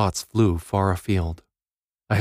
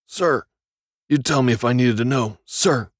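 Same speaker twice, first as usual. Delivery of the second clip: parade-ground reply; 5 semitones higher than usual. Acted. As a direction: bark it back like a drilled soldier. Inmate barking answers at interrogator.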